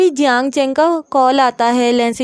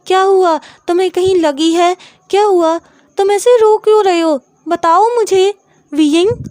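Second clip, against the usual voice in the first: anxious, urgent questions to a crying friend; worried questioning; 4 semitones higher, 4 dB louder than usual. Acted. Friend hugging the crying boy, worried and urgent. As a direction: press him gently but urgently to say what happened.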